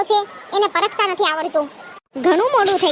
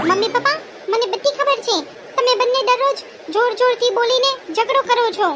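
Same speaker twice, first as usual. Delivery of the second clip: put-on young daughter voice; 4 semitones higher than usual. Daughter confronting parents.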